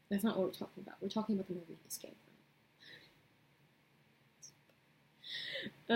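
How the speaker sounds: fast whispered aside. Real, not acted. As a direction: hush it quickly to yourself. Aside back to the topic.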